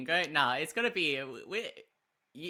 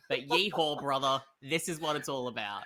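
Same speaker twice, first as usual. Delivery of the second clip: lightly voiced Aussie cowboy; a hint of outback cowboy; 3 semitones lower than usual. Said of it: "I'm an Aussie cowboy now".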